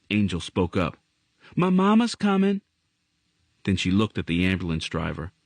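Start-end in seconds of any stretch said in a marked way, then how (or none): 1.6-2.6 put-on high, apologetic little girl; a scared girl pleading not to be scolded; young girl voice. Girl character voice.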